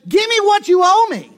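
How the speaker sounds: high, loud furious demand; angry shout. Acted. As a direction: bark it at him while choking him. Servant choking debtor, demands payment.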